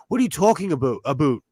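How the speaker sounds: lightly mocked Canadian accent, "about" as "aboot"; a hint of teasing Canadian accent. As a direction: imitate a Canadian saying "aboot". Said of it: "they'll be like".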